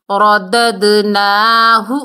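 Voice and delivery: رددناہ with a full ر and an echoed د; qalqalah on dal. Shown as a demonstration. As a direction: bounce the د in رددناہ. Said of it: "دال کی double sound". (رددناہ میں د قلقلہ)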